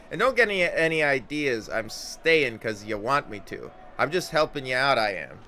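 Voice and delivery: stammering, then a loud Scots-tinged threat; flustered Anna. Acted. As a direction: caught off guard, then bluster. Anna denies feelings.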